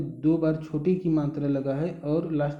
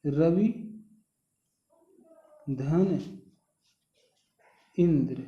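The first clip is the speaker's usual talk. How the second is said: रवि, धन, इंद्र each said alone with long pauses; slow split-up sandhi; much slower than usual. Shown as a demonstration. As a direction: break it into रवि ... धन ... इंद्र slowly. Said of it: "जैसे". (रवि ... धन ... इंद्र, हर भाग अलग और रुक-रुक कर)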